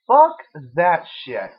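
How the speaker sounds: shouted defiance; fiery shout. Acted. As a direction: punch it out like a rally cry. Empowerment rant builds up.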